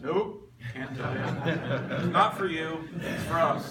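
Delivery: chuckling, slow playful refusal, then laughing through it; a grinning, laughing brush-off to his wife; laughing tease. Real, not acted. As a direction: laugh it off while refusing her. Teasing wife about men's meeting.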